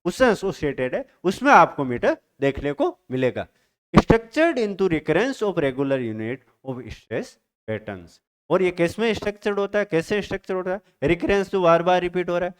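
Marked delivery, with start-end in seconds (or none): 3.9-8.2 reading a definition aloud very slowly; slow, drawn-out textbook read; slow dictation reading. Shown as a demonstration. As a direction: spell it out slowly for students to note down. Teacher reads definition aloud.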